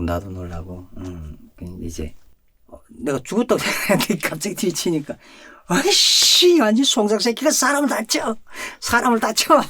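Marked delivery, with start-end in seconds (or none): 5.7-9.6 much higher, louder, yelped curse; a startled guard swearing; shrill startled swearing from the jailer; cursing jailer. Retold or imitated. Jailer cursing after being startled.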